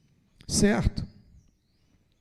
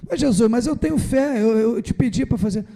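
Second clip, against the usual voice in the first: protesting disciple; 5 semitones higher than usual. Retold or imitated.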